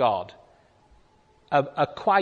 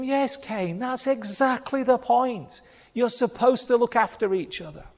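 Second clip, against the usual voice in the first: God answering Cain; 10 semitones higher than usual. Pretend. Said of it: "God wants to just say to him".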